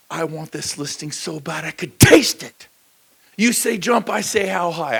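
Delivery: loud, high, pumped-up sales pitch; eager pitch. Retold or imitated. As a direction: sell yourself with all your energy. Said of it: "he goes".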